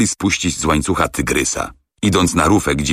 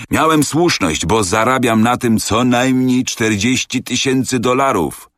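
gloating triumph; 7 semitones higher than usual. A narrator's reading. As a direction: crow about the profit. Captain gloating.

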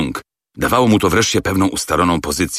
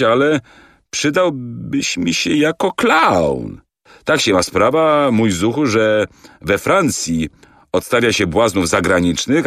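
showman's offer; 5 semitones higher than usual. Acted. Director offering the wanderer a clown job, a touch showy. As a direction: sell it like a circus director, drawing it out.

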